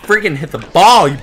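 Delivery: high, loud shout, slowing on "big ball of gas"; angry shout. Real, not acted. Yelling at a rival character during the volleyball minigame, loud and slowed. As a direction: yell at the game character.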